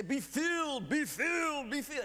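high, loud fervent be filled; mock preacher. Preacher praying over the line, high loud chant. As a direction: ring it out like the preacher.

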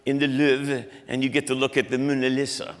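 put-on brief jokey French accent; lightly hammed French pronunciation. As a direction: slip into mock French on the names. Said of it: "that's not a good French accent".

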